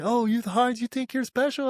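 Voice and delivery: high-pitched mock challenge; acted taunting challenge. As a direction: imitate a superior calling someone out. Acted challenge from team leader.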